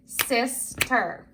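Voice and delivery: "Sister" split in two, sis, ter; syllable by syllable. Shown as a demonstration. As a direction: break "Sister" into two separate beats. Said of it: "we're gonna break the word ap-, apart".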